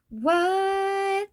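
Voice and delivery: high, startled double take; shocked what. Retold or imitated. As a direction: blurt it out in disbelief. Friends shocked by photos.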